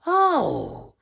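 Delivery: high, loud, slow witch's wail; outraged old witch, loud and high; witch crying out. A narrator's reading. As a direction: howl it out like a furious witch. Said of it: "cried the witch".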